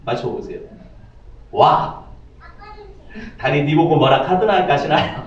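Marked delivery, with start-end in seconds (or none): 1.5-5.2 blunt Gyeongsang man's retort in a lightly put-on Gyeongsang accent; 무뚝뚝한 경상도 사투리 흉내; Gyeongsang dialect. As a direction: toss it off like a gruff Gyeongsang boyfriend, only lightly voiced. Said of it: "그때 경상도 남자가 뭐라고 대답했는지".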